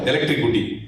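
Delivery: इलेक्ट्रिसिटी as elektrikuti, with a k and u in the middle; student's mispronunciation. Retold or imitated. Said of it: "student को तालिबान इल्म बोलता है इलेक्ट्रिसिटी".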